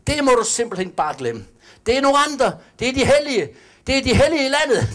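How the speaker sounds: high, sneering mock of church snobs; sing-song contempt, looking down at the little heathen; mocking snooty voice. Preacher parodies believers snubbing the heathen woman, high and sneering.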